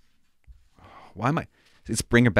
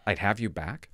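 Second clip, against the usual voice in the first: tender echo; 5 dB quieter than usual. Retold or imitated. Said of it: "What a great thing to say".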